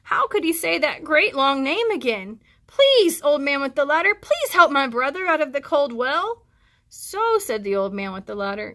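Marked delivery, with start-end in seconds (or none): 2.7-6.4 put-on high, loud begging child; frightened little boy pleading. Frightened Chang begs. 6.9-7.4 put-on surprised old man.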